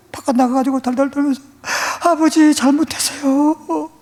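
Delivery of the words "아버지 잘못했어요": put-on pleading child. Boy begging his father to forgive him, pleading. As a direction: beg like a beaten child. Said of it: "애원을 하고 눈물을 흘려도".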